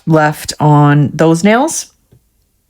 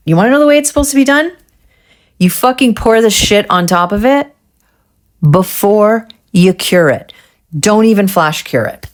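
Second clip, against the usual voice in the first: high, fast frustrated rant at herself; yelling at myself; 4 semitones higher than usual. Real, not acted. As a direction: scold yourself, pitch jumping up on the question. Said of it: "I'm yelling at myself right now".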